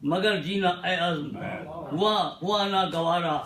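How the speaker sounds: measured Urdu verse with dramatic pauses; mushaira-style poetry delivery; ghazal recitation. Acted. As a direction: recite the couplet phrase by phrase, letting each land. Recites Urdu ghazal couplets to audience.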